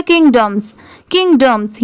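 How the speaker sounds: किंगडम्स with a short, reduced 'dum'; quick 'dum' sound. Shown as a demonstration. Teacher showing the word at speed, किंगडम्स with short dums. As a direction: let dom shrink to dum in किंगडम्स. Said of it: "speed में बोलेंगे तो पूरा डॉम नहीं आएगा".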